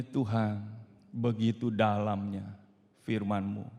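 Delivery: soft, low prayer of awe; prayerful awe. Real, not acted. The preacher praying to God in soft awe. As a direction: whisper a reverent prayer.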